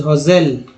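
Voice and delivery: "हॉजेल" with a voiced z/j in the middle; S read as "ज". Shown as a demonstration. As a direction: say "हॉजेल" as HO-zel, not with an s. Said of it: "यहाँ पे इसको ज पढ़ा गया". ("हॉजेल" के बीच में "ज" की आवाज़)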